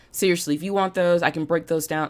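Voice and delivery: usual speaking voice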